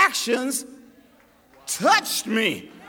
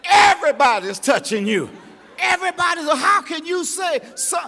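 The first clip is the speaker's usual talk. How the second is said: louder, incredulous disciple; mock-exasperated Peter, loud; 4 dB louder than usual. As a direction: protest like a flustered Peter. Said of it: "cried out".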